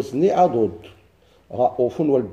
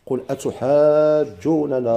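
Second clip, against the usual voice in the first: recitation; much slower than usual. Shown as a demonstration. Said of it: "قال".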